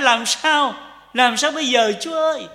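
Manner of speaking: a high, loud cry for help; loud desperate prayer. Shown as a demonstration. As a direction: call out to God in desperation. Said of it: "là phải".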